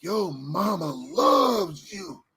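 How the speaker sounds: very slow, drawn-out Gump voice; lightly voiced Gump, slow; Forrest Gump quote.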